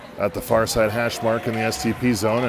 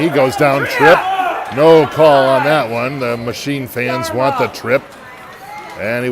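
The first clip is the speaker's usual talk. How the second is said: loud, higher play-by-play call; excited shout; 4 semitones higher, 8 dB louder than usual. Real, not acted. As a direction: yell out the trip.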